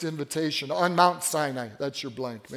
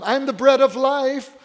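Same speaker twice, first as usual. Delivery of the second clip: higher and louder declaration; proclaiming; 6 semitones higher, 6 dB louder than usual. Acted. Jesus to the crowds, loud proud declaration. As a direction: declare it with full conviction.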